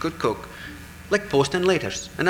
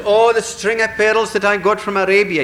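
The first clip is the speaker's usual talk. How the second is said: crying out; 8 semitones higher, 6 dB louder than usual. Acted. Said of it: "the next one says".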